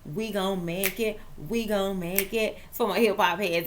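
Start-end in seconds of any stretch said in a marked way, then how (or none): 0.0-1.2 a rapper's line. Retold or imitated. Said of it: "that little Jada kiss for you". 1.5-2.6 a rapper's line. Retold or imitated. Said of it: "that little Jada kiss for you".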